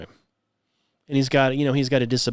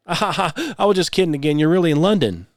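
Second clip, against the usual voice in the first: mock teasing guide; 4 semitones higher than usual. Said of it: "If, if somebody said".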